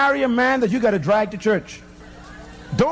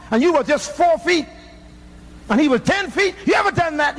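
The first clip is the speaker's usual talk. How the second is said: higher, building challenge; rising preacher challenge; 4 semitones higher than usual. Real, not acted. Preacher taunting the men in church, higher and building.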